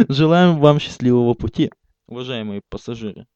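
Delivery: flight attendant. Acted. Conductor farewell announcement.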